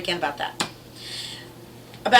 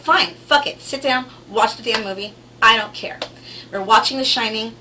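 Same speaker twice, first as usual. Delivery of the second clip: exasperated outburst; 2 semitones higher, 6 dB louder than usual. Retold or imitated. Mother snapping at arguing son.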